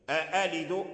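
"أألد" as "a'alidu", two glottal stops; both hamzas pronounced. Shown as a demonstration. Teacher giving the example "أألد", both hamzas full. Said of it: "فأبدل الهمزة الثانية ألفا".

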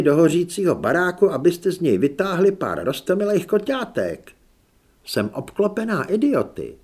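lightly voiced, irritated woman; a touch of exasperated scolding; exasperated Holly. Holly scolds the men who play heroes, exasperated.

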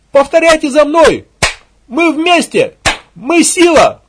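loud, high slogan chanting; strengthening rally shout. Acted. Agitator leading a clapping chant, growing strong. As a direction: make the crowd repeat after you. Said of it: "Голос его креп".

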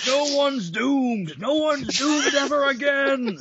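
high, slow heroic declaration; hammy hero vow. Pretend. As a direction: proclaim it like a cheesy action hero.

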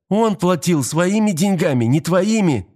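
high, indignant cry; shouted protest. A narrator's reading. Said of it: "крикнула Мария".

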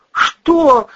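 high, loud bewildered squeak; babbling. Acted. Husband bewildered by his wife, high frightened babble. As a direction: stammer it out, lost. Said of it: "лепетал Бонасюк".

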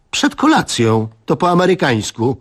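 lofty, know-it-all correction; superior. Acted. Wife correcting her husband, mildly superior. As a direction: talk down to him a little. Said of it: "odparła z wyższością".

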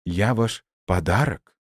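slow breathy seductive whisper; breathy hollywood starlet. Acted. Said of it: "с придыханием прошептала она".

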